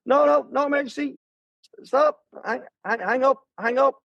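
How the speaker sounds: high frantic no and hang up; panicked. Retold or imitated. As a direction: blurt it out in a panic. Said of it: "And I'm like".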